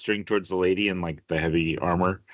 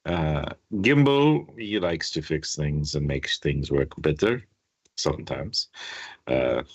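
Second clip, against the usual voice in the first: Quentin. Acted. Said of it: "Quentin goes".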